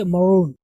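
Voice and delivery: मरून as "muh-ROON"; barely touch the first vowel of मरून; quick first syllable. Shown as a demonstration. Teacher showing how to read it, मरून with short "muh". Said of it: "ऐसे पढ़ेंगे".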